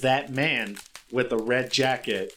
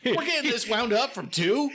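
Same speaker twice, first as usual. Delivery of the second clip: incredulous; 11 semitones higher than usual. Acted. Spritz incredulous.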